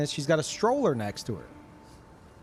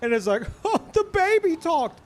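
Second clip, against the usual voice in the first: incredulous rant; 10 semitones higher, 3 dB louder than usual. Real, not acted. Ranting at a dumb commercial.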